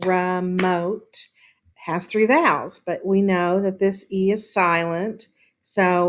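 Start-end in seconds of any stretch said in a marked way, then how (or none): 0.1-1.3 "remote" in two separated beats; split into syllables. Shown as a demonstration. Teacher repeating the word for pupils, "remote" syllable by syllable. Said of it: "is two syllables".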